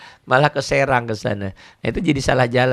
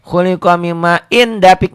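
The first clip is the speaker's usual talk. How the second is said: slow, raised recitation; measured chant, pitched up; recitation demo; 6 semitones higher, 8 dB louder than usual. Shown as a demonstration. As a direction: read it out slowly and loudly like a Quran verse. Demonstrates recitation, reading it slowly.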